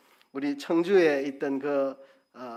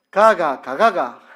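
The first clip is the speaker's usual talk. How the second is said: louder Gyeongsang intonation "가가, 가가"; 3 semitones higher, 10 dB louder, slower than usual. Shown as a demonstration. Preacher demonstrating dialect, a loud Gyeongsang "가가". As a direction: sing the "가가" tones the Gyeongsang way. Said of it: "제가 해볼게요".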